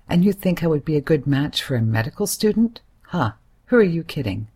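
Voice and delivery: loud, scornful shout. Acted. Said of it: "I shout at him".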